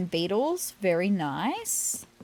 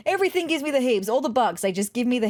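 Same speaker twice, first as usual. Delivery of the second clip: laughing; 4 semitones higher, 3 dB louder, faster than usual. Real, not acted. Laughing at her own squeamishness.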